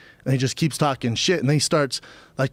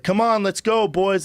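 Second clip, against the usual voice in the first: imitated call, pitched much higher; 6 semitones higher, slower than usual. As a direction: hurry the boys along, mock urgent. Showtime crew calling him away.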